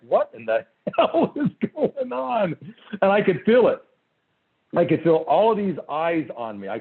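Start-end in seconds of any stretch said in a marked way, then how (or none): 0.1-2.5 high, slow, baffled mock voice through a laugh; confused Mormon. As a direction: squeak out the confusion while laughing. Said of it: "confused Mormons like".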